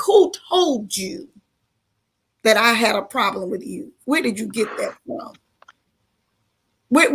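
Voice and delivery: low, hushed voice of God, half whispered in places. Retold or imitated. God speaking to her in prayer, low and hushed. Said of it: "I heard this voice say".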